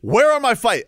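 loud, high-pitched protest; indignant demand. Real, not acted. Protesting that Florida was promised fights, indignant demand.

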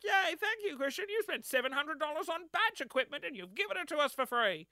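high, gushing mock gratitude from radio staff; mock excited thanks. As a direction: squeal the thanks in a put-on cheery voice. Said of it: "They were like".

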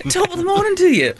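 high, hammed-up British greeting; mock British accent. Deaf person who chose British, hammed-up British accent. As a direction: sing out a fake British hello. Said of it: "I might as well choose a British one".

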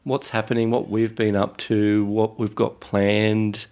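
stuffy voice from a head cold; nasal voice. Real, not acted. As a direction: speak through a blocked nose, head cold. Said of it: "nasal, dulcet tones".

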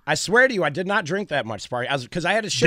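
hoarse, worn-out gravelly voice. Real, not acted. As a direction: talk through a rough, shot voice. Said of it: "gravelly voice and all".

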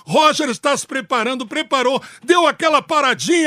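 play-by-play. Pretend. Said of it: "narrador por um dia".

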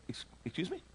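breathy, incredulous excuse me; can't believe what he just heard; stunned disbelief. Retold or imitated. Traveler stunned at the airline desk, incredulous. Stunned at being sent away.

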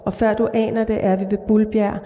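calm, even literary read-aloud; measured reading of a dark short story. A narrator's reading. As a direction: read the story steadily to the listener. Author reads her short story aloud.

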